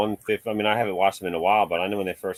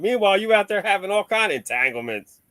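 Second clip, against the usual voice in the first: higher and louder, exasperated telling-off; mock scolding; 11 semitones higher, 3 dB louder than usual. Talking to Jada Smith about the kissing scene, exasperated mock telling-off. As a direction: scold her like she's being ridiculous.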